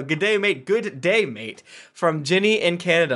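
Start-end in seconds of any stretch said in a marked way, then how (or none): 0.0-1.6 mock Aussie G'day again, higher; Australian accent retry. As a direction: try the Aussie greeting once more. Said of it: "all right, no".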